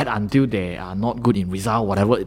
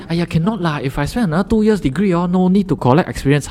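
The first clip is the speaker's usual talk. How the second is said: Singlish; 7 semitones higher than usual. Retold or imitated. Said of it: "they will say".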